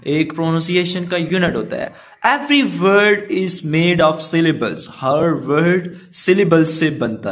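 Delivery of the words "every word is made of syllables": unhurried textbook read; slow reading. Acted. Teacher reading the definition to pupils, slow.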